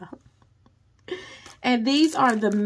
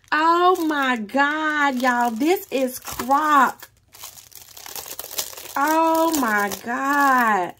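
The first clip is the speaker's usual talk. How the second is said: louder, slow, drawn-out amazement; thrilled gasp; 3 semitones higher, 4 dB louder, much slower than usual. Real, not acted. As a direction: stretch out each word in awe. Thrilled over new item.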